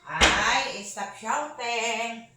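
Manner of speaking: high, slow, drawn-out plea; slow, high-pitched chiding. Real, not acted. Telling child to stop shouting.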